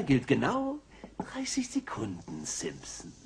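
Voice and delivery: a quiet, pressing whisper; menacing whisper. Acted. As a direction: whisper the deadline as a threat. Burns pressures Homer with a deadline. (drohendes Flüstern)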